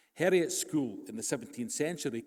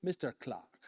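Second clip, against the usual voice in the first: condescending. Retold or imitated. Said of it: "inquired in a rather condescending tone".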